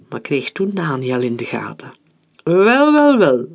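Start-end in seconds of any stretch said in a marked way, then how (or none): 2.4-3.5 high, loud chuckling "wel wel wel"; hearty mock-friendly laugh; laughing heartily. Major-general greets an old acquaintance, laughing loudly. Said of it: "lachte hij uitbundig".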